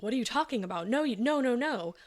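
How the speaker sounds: high, rising mock protest; retold alarmed disbelief. Friend hearing the confession by phone, imitated high-pitched disbelief. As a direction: imitate a friend refusing to believe it, voice climbing.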